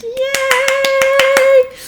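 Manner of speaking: high squeal of delight; excited cheer. Real, not acted. Teacher praising a student, excited cheer.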